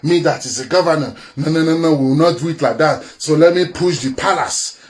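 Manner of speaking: mock governor's thoughts. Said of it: "What did they think?".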